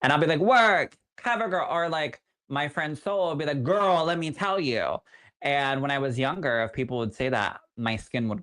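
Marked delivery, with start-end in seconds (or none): 0.4-1.7 sassy hype cheer. Acted. Performer hyping up people with catchphrases, sassy high cheer. 3.6-5.0 sassy friend impression. Imitating friend Soul's catchphrase.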